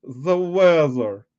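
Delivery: slow, drawn-out seductive voice; sexy voice. Pretend. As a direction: purr the words out slowly, hamming it up. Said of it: "You mean sexy voice?".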